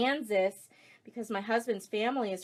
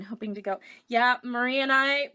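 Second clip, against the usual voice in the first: ordinary delivery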